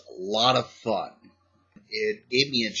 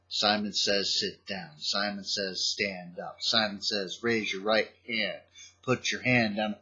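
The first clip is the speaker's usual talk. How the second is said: slow Simon Says; 3 semitones lower, 5 dB quieter than usual. Shown as a demonstration. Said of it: "start off slow with".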